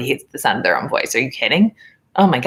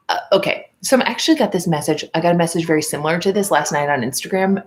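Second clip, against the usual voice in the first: ordinary talk, nothing marked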